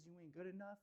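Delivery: tiny nagging voice; quiet little voice. Retold or imitated. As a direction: let the inner critic barely breathe it. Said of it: "That quiet little tiny voice that just says".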